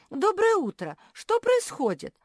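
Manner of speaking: squeaky-high, loud greeting; delighted. A narrator's reading. Naretta greeting Malum through the door, delighted. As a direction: gush eagerly at the host. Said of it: "обрадовалась Наретта".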